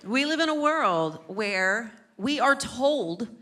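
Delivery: slow, loud trailer announcer; movie trailer voice. Shown as a demonstration. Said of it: "I sound like the trailer guy".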